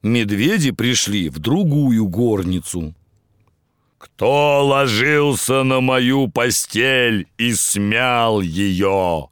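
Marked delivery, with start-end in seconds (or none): 4.0-9.3 a slow hint of a bear roar; scary roar. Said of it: "заревел Михаил Иванович страшным голосом".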